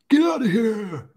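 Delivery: very high, loud shoo; shooing yell. Retold or imitated. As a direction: yell the fly away. Shooing flies at barbecue.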